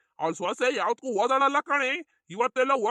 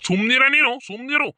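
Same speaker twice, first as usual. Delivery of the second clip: raised-voice reprimand; loud hushing; 7 dB louder than usual. Acted. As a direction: cut in loudly to stop the quarrel. Hushing an angry quarreller.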